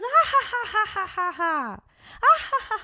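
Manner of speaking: high, loud mock giggle like a delighted kid; imitated child laugh. Kid hit by waterfall water laughing it off, high giggle. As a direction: play the kid who just laughs off the hurt. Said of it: "He goes".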